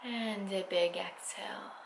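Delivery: close, intimate whisper; right in your ear. Acted. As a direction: whisper the breath cue softly. Whispered breath cue in meditation.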